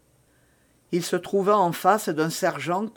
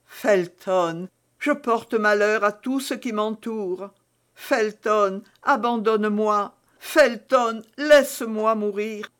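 pleading; 4 semitones higher than usual. Acted. Milady begs to be abandoned.

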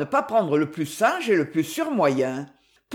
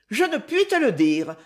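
energetic; 4 semitones higher than usual. Acted. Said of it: "reprit-elle enfin avec énergie".

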